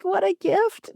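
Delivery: high, trembling, nail-biting; shaky voice. Shown as a demonstration. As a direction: let your voice shake with nerves. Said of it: "I can say with, like, a shaky voice".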